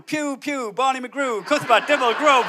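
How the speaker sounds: a hint of a teacher calling out names; lightly voiced teacher reading the register; rattling off absurd names, a touch of teacher; teacher taking register. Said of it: "teacher ... taking register, going".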